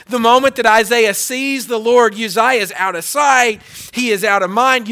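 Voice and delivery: rising pulpit emphasis; emphatic preaching. Acted. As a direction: preach it harder the second time. Repeated line, second take emphatic.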